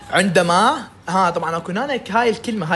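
usual speaking voice

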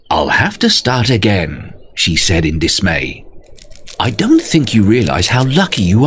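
spider voice. Acted. Spider character speaking.

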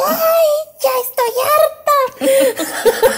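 high, slow, drawn-out wail of fed-up frustration; exasperated outburst. Retold or imitated. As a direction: stretch it out high like you've had enough, half laughing. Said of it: "me desesperé y fue así de".

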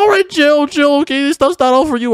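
high-pitched, urgent telling-off; alarmed scolding. Acted. Player stops her eating it all, alarmed. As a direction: cut in high to halt the feast.

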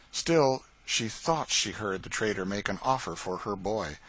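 ordinary delivery

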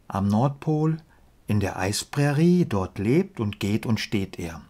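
measured verse reading with pauses at line ends; deliberate, lilting rhymed delivery; poem recitation. Acted. Recites polar bear poem.

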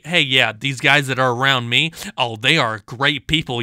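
mocking impression. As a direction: parody his bragging about the team. Mimicking the opponent's boast.

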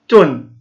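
تن as tun with a sounded final n; tanween ending. Shown as a demonstration. Teacher showing pupils ta marbuta with tanween, clear tun for تن. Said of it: "مع التنوين كيف ننطقها".

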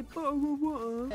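mock British accent. Brit insulted by Americans' imitations, mocking the fake British accent. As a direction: parody a badly done British accent. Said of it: "you guys never do it right".

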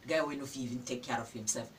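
mock a girl's poor choice, sneering; mocking laugh. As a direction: jeer at her like a scornful guy. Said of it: "The guy go come dey laugh you".

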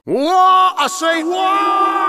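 startled shout. Acted. Startled by a sudden danger.

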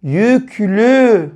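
"Yüklü" in two held syllables, "yük" then "lü"; blending syllables. Shown as a demonstration. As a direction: join "yük" and "lü" slowly into "Yüklü". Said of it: "Birleştirelim". ("Yüklü" sözcüğünü heceleyerek okuma)

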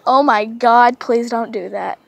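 mock alarmed owner. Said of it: "owner answering cat".

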